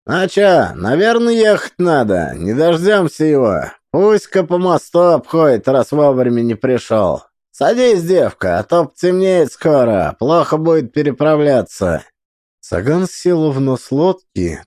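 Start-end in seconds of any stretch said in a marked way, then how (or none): 0.1-12.0 loud gruff boatman. Acted. Boatman urging her into boat.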